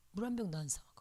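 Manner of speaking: quiet aside, "안 사 먹어" trailing off; soft repeat. Shown as a demonstration. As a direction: let "물 한 병도" drop to a murmur.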